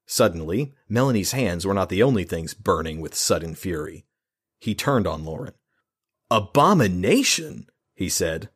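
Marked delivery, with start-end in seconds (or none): 6.3-7.7 slow, loud outraged shout; shouted in outrage. Acted. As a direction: throw the word back furiously. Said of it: "more like shouted".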